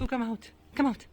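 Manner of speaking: high, loud call rising; calling the dog. Real, not acted.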